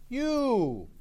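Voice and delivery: "You" stretched long, high and loud; stress on YOU. Shown as a demonstration. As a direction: call out a drawn-out, loud "You". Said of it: "he's not saying".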